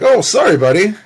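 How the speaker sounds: high, loud mock-apologetic quote; polite Canadian apology. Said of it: "Very Canadian in the U K".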